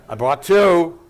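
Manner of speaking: a real laugh running through the words. Real, not acted. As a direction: repeat the punchline through a laugh. Repeats the punchline laughing.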